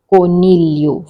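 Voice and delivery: coniglio with the G left silent. Shown as a demonstration. Teaching the Italian word for rabbit, coniglio with silent G. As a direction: say coniglio with no hard G, just a "lyo" ending. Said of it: "G is silent".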